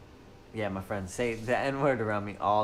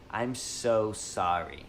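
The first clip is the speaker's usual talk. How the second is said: very slow, airy sorry; yoga teacher voice; 2 semitones lower, much slower than usual. Retold or imitated. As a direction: stretch it out like a soothing yoga teacher. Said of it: "that's our yoga teacher's voice".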